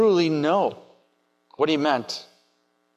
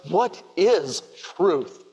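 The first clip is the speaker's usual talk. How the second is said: frustration and disgust; 2 semitones higher, slower than usual. Acted. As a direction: spit it out in weary disgust. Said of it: "say in frustration and disgust".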